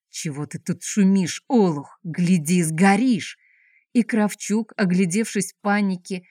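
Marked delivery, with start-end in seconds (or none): 0.1-3.4 snarling. Acted. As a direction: menace him from the ground. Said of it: "вызверился". (злобный окрик)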